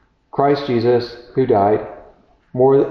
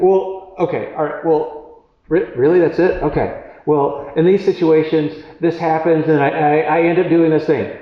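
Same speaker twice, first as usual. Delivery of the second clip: higher, lightly acted confused patient; baffled client; 5 semitones higher than usual. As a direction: play the puzzled man told to just stop. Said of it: "it's like".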